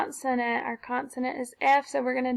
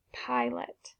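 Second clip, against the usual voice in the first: whisper; 8 dB quieter than usual. Shown as a demonstration. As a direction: whisper Pilot softly. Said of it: "model word whispered".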